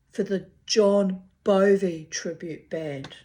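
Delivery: mock grandeur. Real, not acted. Mocking the misspelled band name.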